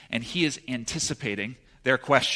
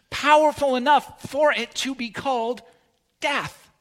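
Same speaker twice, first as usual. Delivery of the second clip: rising fervour; 11 semitones higher, 4 dB louder than usual. Acted. Preacher's climax on grace.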